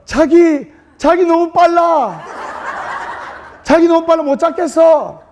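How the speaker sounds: high, hammed-up whining; mock-whiny groom. Groom pretending he can't catch his bride, mock whine. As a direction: ham up the fake fall. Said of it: "넘어지면서".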